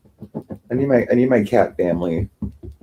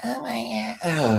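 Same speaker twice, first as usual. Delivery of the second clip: mock whispered gasp; 8 dB quieter, slower than usual. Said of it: "it's like".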